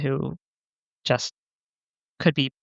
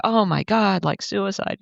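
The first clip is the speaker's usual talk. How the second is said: higher, a retold shocked reaction; shocked gasp; 6 semitones higher, slower than usual. Imitating a stranger shocked to hear of the suicide. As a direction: mimic someone stunned by the news. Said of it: "huge emotional reaction from the other person".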